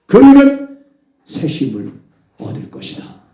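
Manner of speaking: high, loud burst; preaching climax. Acted. Preacher proclaiming the promise of new strength, loud. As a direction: build to the promise.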